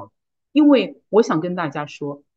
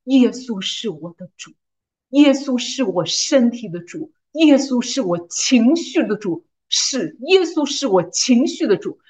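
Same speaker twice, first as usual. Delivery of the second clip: slow, emphatic proclamation; faith declaration; 3 semitones higher, slower than usual. Retold or imitated. Declaring Jesus lord over her emotions, slow proclamation. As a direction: declare each phrase firmly and deliberately. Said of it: "我就宣告".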